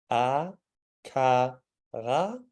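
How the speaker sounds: "a, ka, ra" with the R from the back of the throat; Danish back R drill. Shown as a demonstration. Teacher demonstrating "a, ka, ra" with a Danish throat R. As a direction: open mouth, then "a, ka, ra" with a throaty Danish R. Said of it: "it forces you to open your mouth".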